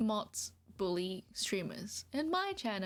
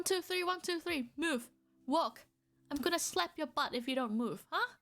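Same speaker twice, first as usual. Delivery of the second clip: bossy farm master; 4 semitones higher than usual. Pretend. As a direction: boss the troll like a farmhand you drive with a whip. Bossing troll as farm animal.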